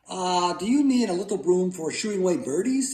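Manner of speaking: high-voiced boyish question; hopeful asking. A narrator's reading. Boy asking mother which broom, high hopeful question. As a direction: pitch it up, innocently hopeful.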